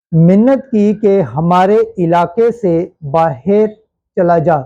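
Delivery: slow, measured scripture narration; formal lectern reading with long pauses; Gospel reading. Acted. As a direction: read the Gospel in deliberate, separated phrases. Reads the Gospel passage aloud.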